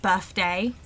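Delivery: "birthday" with an f in the middle, like "birfday"; Cockney f for th. Shown as a demonstration. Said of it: "changed to an F sound".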